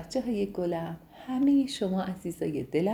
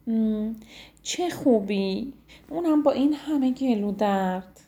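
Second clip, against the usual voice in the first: surprised; 3 semitones higher than usual. Acted. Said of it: "با تعجب پرسید".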